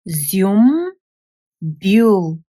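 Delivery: "Zium" and "bule" as two clear halves, zyoom then byool; careful Bulgarian reading; Bulgarian pronunciation. Shown as a demonstration. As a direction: join the halves slowly. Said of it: "try to read it on its own first".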